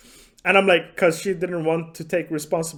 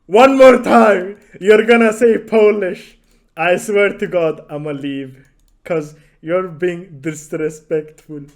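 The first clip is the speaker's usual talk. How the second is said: loud, heated call-out read aloud; reading her furious message in a loud voice; angry outburst; 9 dB louder than usual. Retold or imitated. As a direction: bark it like a furious warning.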